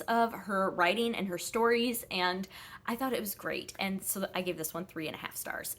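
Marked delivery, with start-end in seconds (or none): 3.8-5.7 breathless from talking so much; running low on breath. Real, not acted. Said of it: "I'm getting out of breath".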